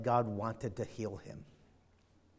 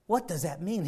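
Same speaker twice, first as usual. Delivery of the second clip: rising puzzled question; 4 semitones higher than usual. Shown as a demonstration.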